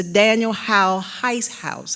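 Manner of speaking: name said slowly and deliberately; slow, careful. Real, not acted. Lecturer carefully getting through a tricky house name, slowly. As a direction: take care over each word of the name. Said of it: "I have to say that slowly".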